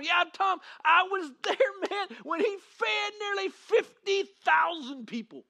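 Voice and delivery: high, loud, slow excited calling; second man in the crowd calling to Tom, thrilled; excited other onlooker. Acted. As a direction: shout your memory of the miracle. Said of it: "somebody else over pointing at Tom".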